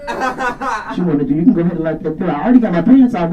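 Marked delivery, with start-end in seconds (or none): 0.1-1.3 slow, teasing come-on line; mock seduction, slow and drawn out. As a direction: draw it out like a slow pickup line. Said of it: "And I'm like".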